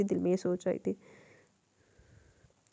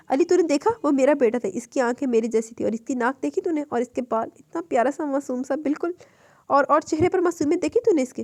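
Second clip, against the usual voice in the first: eager; 2 semitones higher than usual. Acted. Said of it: "जामिन पुरजोश अंदाज में अली के पासों को पकड़कर बोला".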